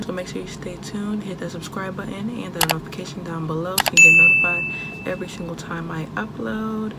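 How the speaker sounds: talking with retainers in; slightly lisped retainer speech; wearing a retainer. Real, not acted. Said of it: "so I sound a little funny".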